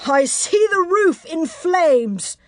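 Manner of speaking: high, slow, drawn-out taunting call; enemy calling up to the battlements; called back. Acted. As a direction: shout it mockingly across a distance. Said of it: "Thurston called back".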